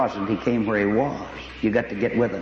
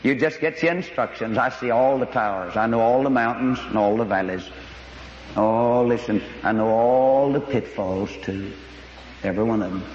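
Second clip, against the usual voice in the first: reassuring voice of God; 3 semitones lower than usual. Retold or imitated. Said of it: "God said".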